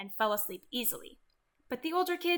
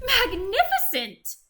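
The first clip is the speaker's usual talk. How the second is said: higher, louder, drawn-out praise; mock admiration; 8 semitones higher, 8 dB louder, slower than usual. Elizabeth eggs the dragon on with lavish, drawn-out praise. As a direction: gush over him to egg him on.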